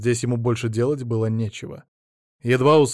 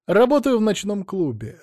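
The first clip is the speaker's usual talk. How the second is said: with a smile; 9 semitones higher, 4 dB louder than usual. A narrator's reading. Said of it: "с улыбкой пояснил он".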